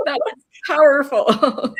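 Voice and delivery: real crying voice; tearful. Real, not acted. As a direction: let the tears come through. Crying after emotional moment.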